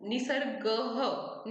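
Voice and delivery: "निसर्ग ह" said slowly with a breathy ह after the word; visarga demo. Shown as a demonstration. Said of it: "ह ऐसे pronounce करते हैं". (विसर्ग के साथ धीमा उच्चारण)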